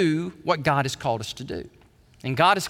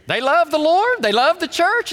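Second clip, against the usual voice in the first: fervent preaching; 12 semitones higher, 6 dB louder than usual. Real, not acted. Preacher rising with fervour.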